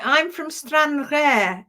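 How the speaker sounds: a touch of Scottish, drawn out; slightly Scottish accent. Acted. Reading out a Stranraer viewer's greeting, slightly Scottish accent. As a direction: read it with a light Scottish lilt. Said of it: "say it with a slightly Scottish accent".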